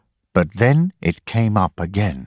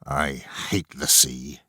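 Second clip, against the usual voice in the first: inner thought; 5 semitones lower, 7 dB quieter than usual. Acted. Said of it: "he thought".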